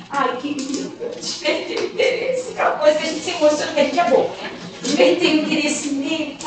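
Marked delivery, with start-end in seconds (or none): 0.1-2.5 naive delight. Retold or imitated. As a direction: send up her own starry-eyed pride. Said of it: "Eu toda inocente, toda feliz".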